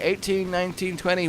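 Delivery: acted working it out, one number at a time; slowly counting. Delivery driver doing the math in his head, tentative counting. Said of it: "working out the math slowly in his head".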